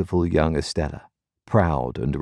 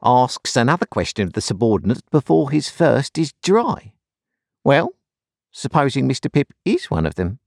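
raised, teasing voice; excited; 7 semitones higher than usual. A narrator's reading. Wemmick needling the turnkey, higher gleeful voice. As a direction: keep the gleeful pitch up. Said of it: "cried Wemmick".

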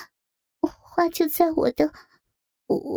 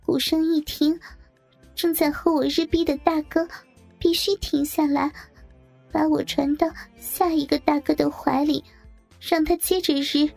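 much higher, halting, distressed voice; pained; 6 semitones higher than usual. A narrator's reading. The coerced bridesmaid goes on reciting rules, pained. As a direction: recite reluctantly, high and pained. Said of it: "继续痛苦地说".

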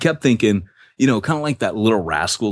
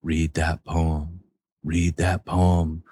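slow, lower nagging little voice; nagging conscience voice; 3 semitones lower, much slower than usual. Retold or imitated. Peyton mimicking the Little Rascals conscience, slow nagging voice. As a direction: drag it out like a conscience that won't quit. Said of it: "he has this little voice going".

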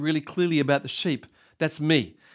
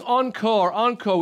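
higher-pitched imitated cheer; crowd calling out; 7 semitones higher, slower than usual. Pastor voicing a clapping crowd after the orator's session, calling out. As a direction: call for more like an audience.

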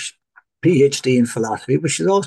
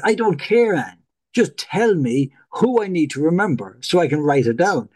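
exasperated; 3 semitones higher than usual. Retold or imitated. Student demanding answers from his lecturer, exasperated. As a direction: whine it like a fed-up student. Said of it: "And I'm like".

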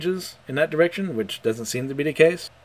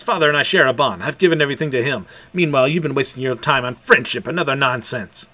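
fierce declaration; 5 dB louder than usual. Acted. Dominic lectures Mash angrily.

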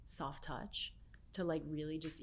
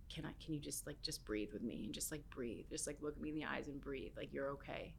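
soothing reassurance; 5 dB quieter than usual. Retold or imitated. Guest calms a crying stranger to breathe, softly soothing.

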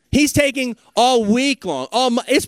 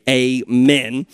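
congregation call; 7 semitones lower than usual. Real, not acted. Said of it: "Somebody say".

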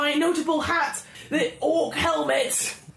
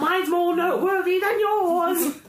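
mocking shout; 4 semitones higher than usual. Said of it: "So I rush up and I'm like".

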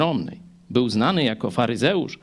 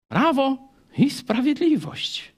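slow, pointed, higher "Prawo i sprawiedliwość" with weight on "Prawo"; ironic party name; 10 semitones higher, slower than usual. Acted. Preacher mocking the party name, slow and pointed. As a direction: let the irony sit on "Prawo".

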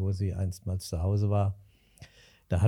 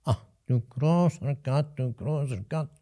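put-on dismayed old woman; 3 semitones higher than usual. Caught old woman's dismayed cry.

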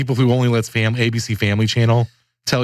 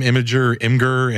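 usual speaking voice

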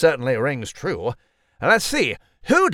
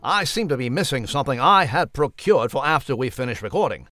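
lightly voiced posh English mouse; a prim old chap of a mouse; mouse character. Mouse character Nigel speaks.

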